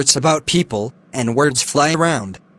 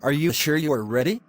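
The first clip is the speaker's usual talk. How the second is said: hushed pressing; 5 dB quieter than usual. Acted. Lecturer pressing the student.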